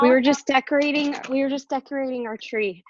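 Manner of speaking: breathless, catching her breath between phrases. Real, not acted. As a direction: talk winded after running up the stairs. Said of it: "sorry, I'm out of breath 'cause I ran upstairs".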